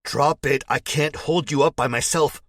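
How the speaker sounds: high, loud strained yelling; desperate yell. A narrator's reading. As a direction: yell it at him while straining to hold him. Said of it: "I yell".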